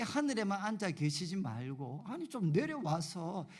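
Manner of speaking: retold complaint to God, pitch and force building; resentful prayer. Young preacher protesting to God about unruly kids, resentful. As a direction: plead your grievance, pressing harder as you go. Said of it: "하나님께 막 원망하는 그런 기도를".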